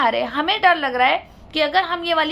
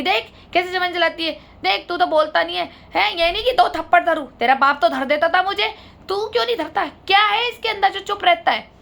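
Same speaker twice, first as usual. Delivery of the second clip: retold angry taunting; 2 semitones higher than usual. Mother-in-law scolding her silent son, angrily retold. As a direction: mimic her nagging at the husband, raised.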